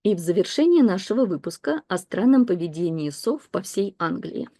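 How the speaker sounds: steady newsreader style; read-aloud news text. Acted. Teacher reading the owl news story to learners, in a newsreader style. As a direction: read it like a broadcast bulletin.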